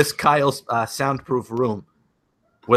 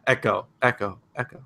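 mock echo; 3 semitones lower, 6 dB quieter than usual. Priest joking about the echo in one room, fading mock echo. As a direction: echo that fades away word by word. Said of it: "there's an echo".

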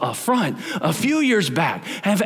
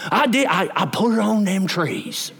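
put-on Southern accent. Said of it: "Big Southern accent".

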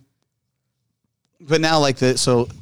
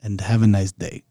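put-on calm African accent; 3 semitones lower than usual. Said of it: "this is like".

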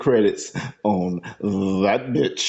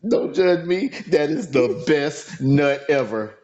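raised, drawn-out mock delight; over-enthusiastic; 4 semitones higher, slower than usual. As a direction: gush with far too much enthusiasm. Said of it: "too much enthusiasm".

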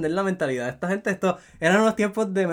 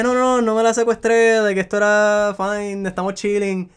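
mock casual excuse; 5 semitones higher, slower than usual. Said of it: "como que".

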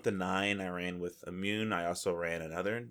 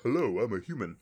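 lightly voiced hammy villager, louder; caricatured human NPC; 5 dB louder than usual. Mocking human NPC greetings, light hammy voice. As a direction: ham up a generic townsperson. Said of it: "They're like".

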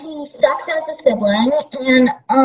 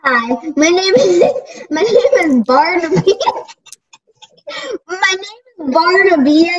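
giggling; 2 semitones higher than usual. Real, not acted. Giggling through silly introduction.

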